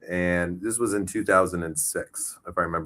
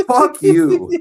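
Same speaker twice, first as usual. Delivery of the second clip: high, loud mock yell; mock shout; 11 dB louder than usual. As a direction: yell it back in jest. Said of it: "I was like".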